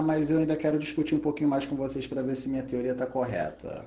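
low, soft sultry host intro; a touch of sultry announcer; voz sensual. Acted. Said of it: "voz sensual pra caralho". (apresentação com voz sensual)

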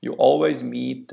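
usual speaking voice

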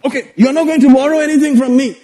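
fast, high, dismissive retort; mock dismissive relative. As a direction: rattle it off like an annoyed uncle. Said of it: "I said".

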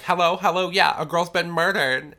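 high, loud frantic phone call; panicked call. Retold or imitated. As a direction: blurt it out in a panic.

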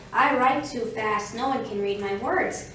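lightly voiced rabbit with firm emphasis; rabbit character. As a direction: make a mild, emphatic excuse as the rabbit. Rabbit's excuse against tortoise's.

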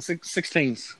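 put-on "sixteens" with the Toronto "teens" for "things"; Toronto slang pronunciation. Shown as a demonstration. Co-host showing how Toronto says it, imitated slang "sixteens". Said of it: "they say teens".

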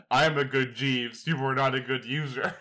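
a hint of stilted machine scolding; chatbot. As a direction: imitate a chatbot, measured and deliberate. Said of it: "the Bing chatbot".

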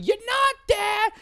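high, loud, drawn-out mock yell; very high, strained shouting impression; imitated screaming. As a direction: scream it like an irate Long Island guy. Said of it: "the guy in Long Island screaming".

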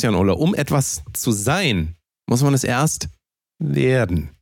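slow, mock-weighty maxim; half-joking philosopher's verdict; solemn pronouncement. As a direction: lay it down like a grand wisdom, slowly. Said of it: "jetzt halte ich fest".

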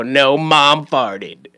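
teasing reply. Retold or imitated. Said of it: "And I go".

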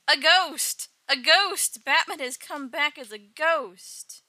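loud, high cries of alarm; hammed-up terrified gang raising the alarm; mock panic. Gang voiced panicking at a ghost.

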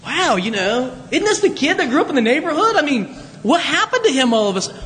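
put-on a neighbor marveling at the hometown kid; astonished neighbor. Villager to villager, marveling at Jesus, quick and amazed. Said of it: "people are saying".

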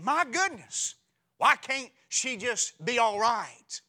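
high, loud mock exasperation; hammed-up frustrated sigh of a man; exasperated husband. Preacher voicing husbands fed up with wives, high and loud.

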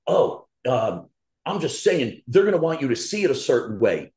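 a lightly voiced, hesitant know-it-all; mocking a hedging critic. Imitating the online critic who hedges his point. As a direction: mimic the guy backpedalling with an um. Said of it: "This motherfucker was just like".

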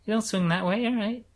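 mock resigned voice. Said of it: "It's like".

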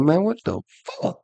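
pained surprise. Retold or imitated. Sits down, back hurts.

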